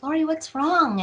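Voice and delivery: imitating mom's alarmed question; worried mother. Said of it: "she's like".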